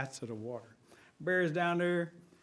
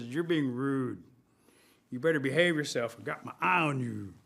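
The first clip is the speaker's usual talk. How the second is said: warning; 3 semitones lower than usual. Acted. Bear grabs rabbit and warns.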